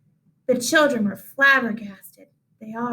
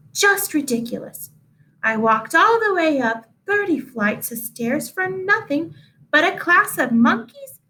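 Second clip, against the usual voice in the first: higher, huffy teacher voice; indignant teacher; 4 semitones higher than usual. Acted. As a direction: play a prim, put-out teacher. Teacher complains about monkeys.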